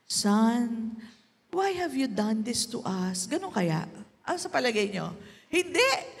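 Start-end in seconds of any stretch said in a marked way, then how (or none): 0.1-3.3 a gentle, even question to her son; calm mother. Shown as a demonstration. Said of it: "ganito kaya ang tono ni Mary?".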